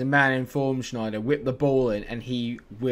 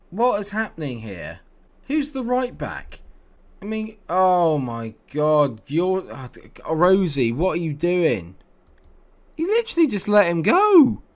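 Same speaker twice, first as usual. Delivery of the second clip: louder and higher, disbelieving rant; real exasperated outburst; frustrated shout; 8 semitones higher, 9 dB louder, slower than usual. Real, not acted. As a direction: yell at the defender for letting him go. Conceding a second goal.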